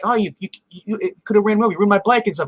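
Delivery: high-pitched, stammered mock accusation; mock indignant. Retold girl scolding after accident.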